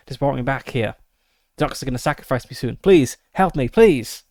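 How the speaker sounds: a desperate American prisoner begging, rising to a cry; handcuffed American agent begging for help in an American accent. Acted. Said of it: "in an American accent".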